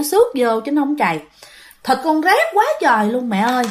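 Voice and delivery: put-on a seven-year-old calmly telling her mom; a hint of a little girl, matter-of-fact; little girl answering nonchalantly. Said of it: "là nó còn nói tiếp nha".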